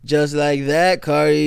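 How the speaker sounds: hint of a rapper's delivery, echoing the line; imitating a rapper. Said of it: "But anyways".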